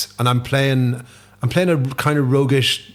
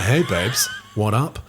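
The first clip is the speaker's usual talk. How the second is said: sleazebag; 3 semitones lower, slower than usual. Acted. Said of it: "he's a bit of a sleaze bag".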